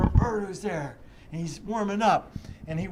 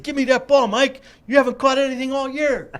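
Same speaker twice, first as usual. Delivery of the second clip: higher, louder mock schoolyard yell; hollering at short Mike for the ball; kids yelling; 9 semitones higher, 11 dB louder than usual. Boys demanding the ball from Mike, loud higher yell. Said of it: "and we said".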